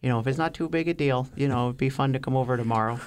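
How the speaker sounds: slow polite Midwest voice. Shown as a demonstration. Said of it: "just slow and, you know".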